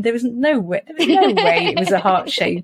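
laughter running through the words; giggly disbelief; amused, laughing. Real, not acted. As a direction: tell it through a laugh at your own clumsiness. Amused telling of silly photo.

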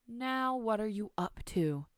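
lightly voiced, catching a child misbehaving; suspicious grandmother.

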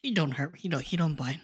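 put-on slipping into a mild Southern accent. Player calming the dwarves about Paladin, in a light Southern accent. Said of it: "Why am I Southern?".

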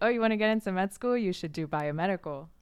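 hammed-up imitation of eager pre-med peers; mock know-it-all advice. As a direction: rattle it off like the classmates who knew better. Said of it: "everyone was like".

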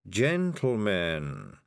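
slow, drawn-out toad. Acted. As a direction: stretch the word out like a solemn toad. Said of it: "This was the voice of the toad".

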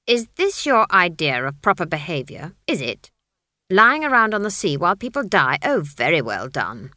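put-on a mother scolding a naughty child; sarcastic old witch telling off. Granny scolds the staff.

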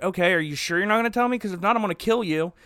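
fast breezy threat; quick offhand killer threat; mock threat. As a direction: rattle off the threat casually. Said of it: "And then the albino's like".

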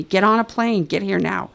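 mild mock yell; retold scream. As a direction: imitate a screaming mother, held back. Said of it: "she's screaming at me".

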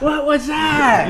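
slow, drawn-out laughing mimicry; mock Jake, laughing. Retelling Jake's look to friends, slow laughing mimicry. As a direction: stretch it out while cracking up.

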